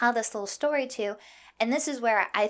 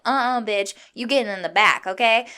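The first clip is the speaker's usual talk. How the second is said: louder, no-nonsense mock telling-off; imagined sassy refusal; 6 dB louder than usual. Imagined New Yorker ordering line-cutter to the back, sassy. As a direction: send her back with loud sass.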